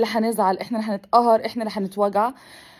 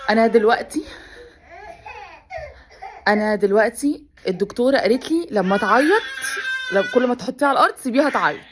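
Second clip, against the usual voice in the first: tearful; 3 semitones higher than usual. Real, not acted. Mother upset about crying baby.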